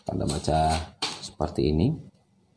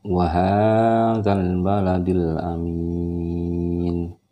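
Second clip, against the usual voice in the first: slow clear recitation; over enunciating; much slower than usual. Shown as a demonstration. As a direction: recite every letter clearly. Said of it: "Ya, jelas ya".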